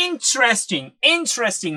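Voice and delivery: "interesting" said as "in-tres-ting", the middle syllable cut; three-syllable interesting. Shown as a demonstration. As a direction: squeeze it into three beats. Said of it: "പ്രൊനൗൺസിയേഷനിലേക്ക് വരുന്ന സമയത്ത്".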